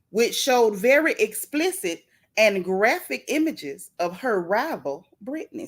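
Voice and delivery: gentle Sunday school reading voice; sweet patient Sunday school. Pretend. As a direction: read it like a sweet church teacher. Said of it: "in my best Sunday school voice".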